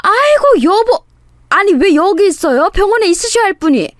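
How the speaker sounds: high, loud put-on alarm; loud outcry. A narrator's reading. Fake wife spotting her runaway husband, loud outcry. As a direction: cry out like a flustered wife. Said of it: "큰 소리로 외쳤습니다".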